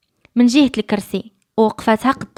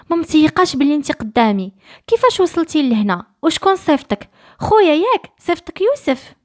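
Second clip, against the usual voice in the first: astonished disbelief; 6 semitones higher than usual. Acted. Rahma to Hina, amazed she is there, rising astonished questions. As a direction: pitch climbing higher with each question, rising to an amazed cry.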